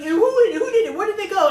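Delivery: high, loud impersonation of an angry mother; mock-interrogate as a Mexican mom; demanding Mexican mom. Mom hunting the attackers, angry Mexican accent. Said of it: "that's how I impersonate her".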